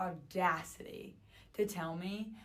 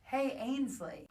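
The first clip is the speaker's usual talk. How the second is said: calling her name across a bar, high and drawn out; a slow, raised call of her name; retold yell; 7 semitones higher, 4 dB louder, much slower than usual. Man across the bar calling her name, slow raised call. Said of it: "I hear somebody yell".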